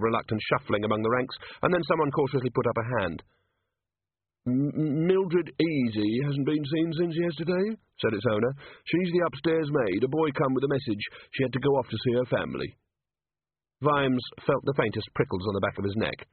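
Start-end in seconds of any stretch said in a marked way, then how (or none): 4.5-12.8 lightly voiced cautious palace servant; timid servant. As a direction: speak up nervously from the ranks.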